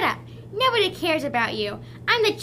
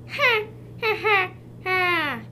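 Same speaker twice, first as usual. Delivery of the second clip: villain laugh; slower than usual. Acted. Villain gloats over his gadget.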